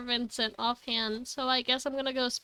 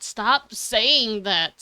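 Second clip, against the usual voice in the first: slow insistent demand; 4 dB louder, much slower than usual. Retold or imitated. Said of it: "Bitch, I'm, like".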